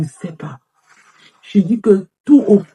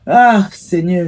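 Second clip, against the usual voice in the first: drawn-out despairing cry; slow wail to the Lord; much slower than usual. Acted. Woman crying to the Lord about her year, slow wailing lament. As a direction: stretch it out like a prayer of despair.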